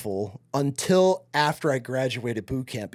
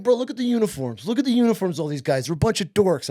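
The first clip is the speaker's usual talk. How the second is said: much higher, teasing bro voice; mocking recruiter; 5 semitones higher than usual. Recruiter mocking Army uniforms to the teen, high teasing. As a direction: jeer at the other uniforms.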